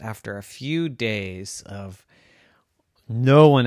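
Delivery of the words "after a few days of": whispered. Acted. Sad turn of story.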